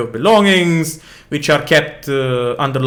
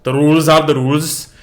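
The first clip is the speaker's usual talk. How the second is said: stern captain. Acted. Captain Kamar argues with the prince.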